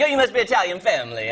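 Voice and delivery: put-on light Italian accent; quick Italian accent impression. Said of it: "Said in an Italian accent".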